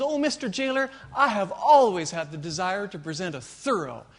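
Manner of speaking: hammed-up eager nerd asking for his dream; eager programmer. First programmer begs the jailer for a lecture, hammed-up and eager.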